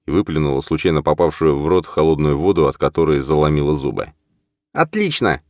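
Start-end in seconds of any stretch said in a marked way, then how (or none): 4.7-5.4 curt. Acted. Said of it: "бросила она".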